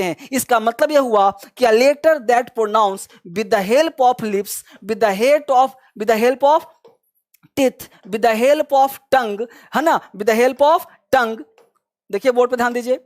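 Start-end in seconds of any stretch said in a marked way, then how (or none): 1.7-11.4 each word spaced out slowly for students to copy; slow dictation. Shown as a demonstration. Teacher dictating a definition to the class, slow and spaced.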